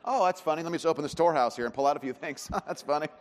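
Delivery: sarcastic self-mock. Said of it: "you know what it feels like".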